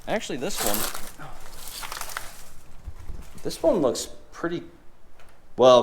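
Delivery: muffled through a shirt; shirt over nose. Real, not acted. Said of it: "I have my shirt over my nose".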